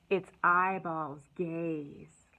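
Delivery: very slow whisper; hushed storytime line. Acted. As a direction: breathe it out slowly to the kids. Hushed reading of the book.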